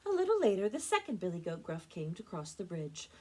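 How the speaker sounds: bright start settling to an even reading; storytime narration. A narrator's reading. Librarian moves the fairy tale along, lively storytelling. Reads picture book to children.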